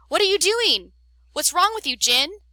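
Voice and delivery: high, loud shocked yell; shocked outrage. Acted. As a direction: push him away in outrage. Amelia shocked after the kiss.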